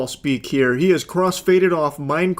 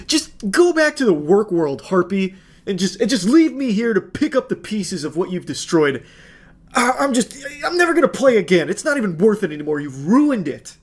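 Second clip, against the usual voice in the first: higher, whiny melodramatic self-pity; mock sulking boyfriend; 4 semitones higher than usual. Parodying the boyfriend's message to his girlfriend, whiny and melodramatic. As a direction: ham up a wounded martyr.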